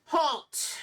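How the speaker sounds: sharp high call of halt; hollered halt. Acted. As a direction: call out halt to stop them. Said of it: "he hollers towards the group".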